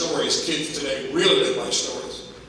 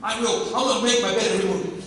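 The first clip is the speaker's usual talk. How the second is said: put-on higher, quick eager child voice; a child waving a hand, eager and fast; eager kid; 6 semitones higher, faster than usual. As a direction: play a kid bursting to answer. They'll raise their hand.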